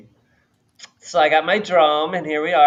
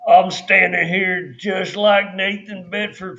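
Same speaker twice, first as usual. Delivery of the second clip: mock protester voice; 4 semitones higher, 3 dB louder, slower than usual.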